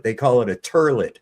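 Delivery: "turlet" for toilet, with an er vowel; New York pronunciation. Retold or imitated. Speaker showing how New Yorkers say toilet, imitated. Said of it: "talk about a toilet".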